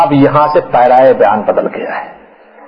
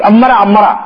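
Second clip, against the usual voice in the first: dying man's panic; 7 semitones higher than usual. Acted. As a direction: cry out as if dying. Acting the damned near death.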